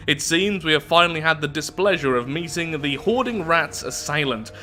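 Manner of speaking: theatrical storybook read-out; story narration. A narrator's reading. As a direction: narrate it with big, swooping emphasis. Reads the event story aloud.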